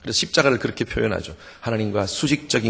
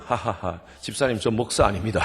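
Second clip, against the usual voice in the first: light laugh running into the words. Retold or imitated. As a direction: chuckle through the correction. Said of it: "그럼 저 웃죠". (웃으면서 가볍게 넘기는 말투)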